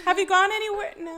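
high laughing chatter; laughing question. Pretend. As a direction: giggle through the small talk. Acting out client small talk.

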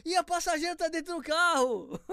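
high, laughing disbelief; amused, squealing high. Real, not acted. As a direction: laugh through it. Laughing at the crazy driver.

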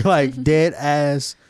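words squeezed out through real laughter; drawn-out syllables broken by laughs; laughing. Real, not acted. Cracking up too hard to get the words out. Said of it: "can't even speak from laughing".

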